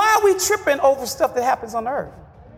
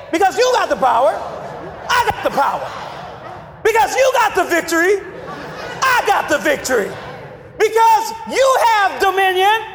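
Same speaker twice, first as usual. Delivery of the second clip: louder preached declaration; 3 semitones higher than usual. Shown as a demonstration. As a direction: raise it up, proclaim it. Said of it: "Say it".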